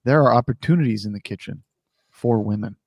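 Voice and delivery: low, measured, luring delivery; a low-key, suggestive invitation. Acted. Co-host suggests alternative tweet wording, sounds luring. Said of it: "sounds like you're trying to lure them".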